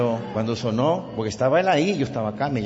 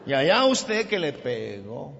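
higher, mock indignant scolding; a touch of an angry attendant; retold angry reproach; 7 semitones higher than usual. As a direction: play the irate parking attendant, lightly. Tan bravo.

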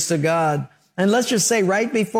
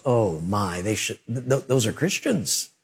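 shocked gasp; 7 semitones lower, 4 dB quieter than usual. Retold or imitated. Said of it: "everybody in the world goes".

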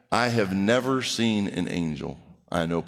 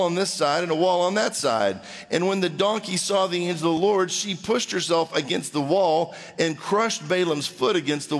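animated, higher-pitched Bible narration; scripture reading; 4 semitones higher than usual. A narrator's reading. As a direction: read the story aloud with emphatic lift. Reads the Bible passage aloud.

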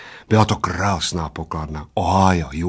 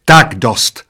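louder outburst, understated shriek; mildly screeched waitress's order; 2 semitones higher, 7 dB louder than usual. A narrator's reading. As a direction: cut them off with a contained screech. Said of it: "zaječela číšnice".

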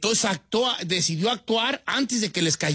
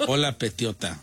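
low sweet greeting; 9 semitones lower than usual. Shown as a demonstration. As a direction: stretch "Petiota" in a low croon. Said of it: "Así, ah". ("Hola, Petiota" grave y alargado)

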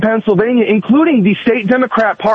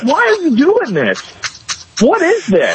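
mock exasperation; 8 semitones higher than usual. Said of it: "And it's like".

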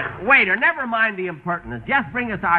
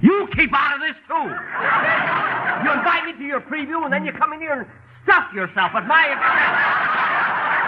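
indignant, pitch raised high; entitled customer; 8 semitones higher than usual. Acted. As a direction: scold them like a wronged big shot. Scolds wife and boss loudly.

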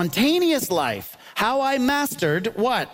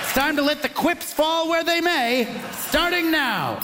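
host's big call-out; 6 semitones higher than usual. Real, not acted. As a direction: belt it out like a game show host. Host kicks off the round.

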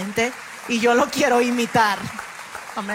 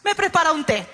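child's sing-song imitation; 2 semitones higher, much slower than usual. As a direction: imitate a little boy humming then asking. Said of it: "pasaba Lucas otra vez".

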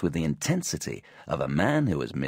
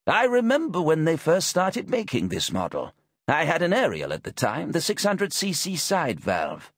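put-on old man voice; 10 semitones higher than usual.

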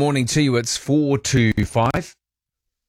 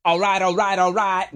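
Matthew McConaughey impression; 8 semitones higher than usual. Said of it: "you can do a Matthew McConaughey accent".

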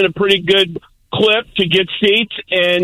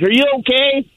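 higher-pitched imitation of worried onlookers; concerned bystanders; 7 semitones higher than usual. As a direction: ask it high, mimicking a concerned bystander. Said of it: "People are like".

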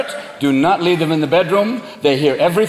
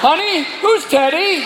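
high, slow, pointed question; suspicious spouse; 9 semitones higher, slower than usual. Acted. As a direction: draw out the question to a partner. Acted spouse questioning after parrot's revelation.

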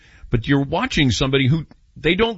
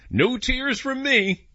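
mock tough vow; 12 semitones higher, slower than usual. Boasting he won't cry.

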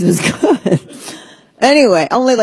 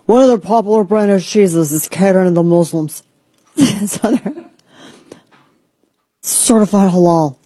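put-on announcer voice. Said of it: "I don't know why I'm talking like this".

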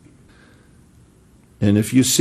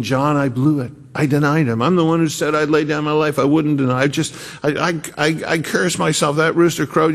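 distraught Peter; 6 semitones higher than usual. Retold or imitated. Peter's anguished inner monologue.

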